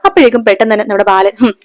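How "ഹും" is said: a mild sneering jab, voice lifted; mocking. Balan mildly mocking his son's delivery job. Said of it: "കളിയാക്കാണ്".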